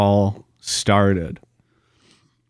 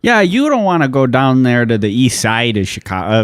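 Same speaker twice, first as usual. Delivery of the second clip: lively, exaggerated Canadian accent; a folksy Canadian warning a visitor; mock Canadian local. Riffing host plays a Canadian warning about the east side, mock Canadian.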